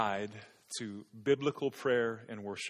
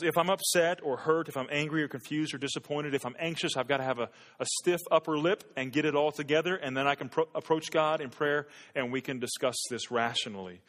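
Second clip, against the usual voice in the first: mocking inner voice; 2 semitones higher, 4 dB louder than usual. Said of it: "You hear how ridiculous that sounds?".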